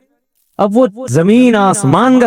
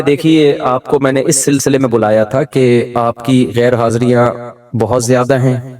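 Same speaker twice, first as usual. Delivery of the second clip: calm and unhurried; 4 semitones lower than usual. Retold or imitated. Principal calmly telling a teacher of his absences. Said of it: "بولتے بھی بڑے ٹھہراؤ کے ساتھ، آرام آرام سے".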